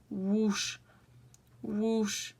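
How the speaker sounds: drawn-out imitated whoosh; spoken whoosh effect. Shown as a demonstration. Vlogger showing how she scrapes it off, playful whooshing. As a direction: voice the swish of each stroke. Voices the scraping motion as noise.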